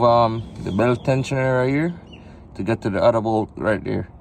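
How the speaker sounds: speaking from under the car; talking on your back beneath a car; lying under a car. Real, not acted. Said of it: "right now I'm under the car".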